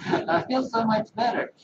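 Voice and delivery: imitated Southern woman's accent. Quoting the local woman's relief, in a put-on Southern accent. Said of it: "like Southern people talk".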